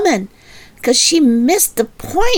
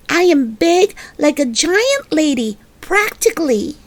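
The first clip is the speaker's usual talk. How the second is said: put-on higher, proud childish voice; boastful little girl; 4 semitones higher than usual. Little girl boasting to her mother how big she is, higher. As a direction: brag that you're as big as a giant.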